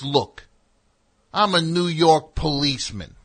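a hammed-up New York cop pulling rank; mock pompous cop. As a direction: lord it over them like a self-important cop. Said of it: "He goes".

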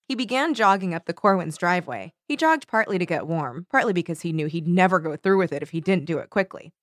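measured book read-aloud, lively on the quotes; story narration. A narrator's reading. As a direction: narrate a teen thriller with mild drama. Reads a novel passage aloud.

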